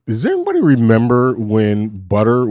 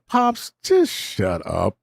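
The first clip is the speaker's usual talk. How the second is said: mimicking daughter; 2 semitones lower, much slower than usual. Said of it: "she was like".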